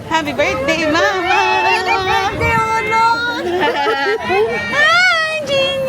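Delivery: high, loud, thrilled greeting; excited surprise greeting. Real, not acted. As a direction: burst in beaming with joy. Bursting in to surprise family.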